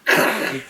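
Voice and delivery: rough throaty rattle for galloping; storyteller's sound effect; imitated riding noise. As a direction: make clattering horse-ride noises with the mouth. Imitates the ride on horseback.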